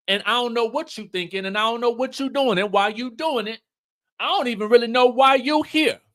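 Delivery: confronting husband. Retold or imitated. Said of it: "is like".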